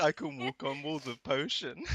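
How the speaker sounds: mock boast, slowly drawn out; Groina. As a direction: imitate a bragging teammate, slowly. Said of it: "Groina's like".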